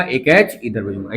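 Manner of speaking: emphatic teacher repetition. Shown as a demonstration. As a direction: repeat it slowly so the class can follow.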